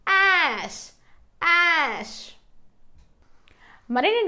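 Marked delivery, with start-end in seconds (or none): 0.1-2.2 "యాష్" stretched out, falling pitch; pronunciation demo. Shown as a demonstration. Teacher modelling the blended word, "యాష్" long and falling. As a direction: draw out the vowel in "యాష్".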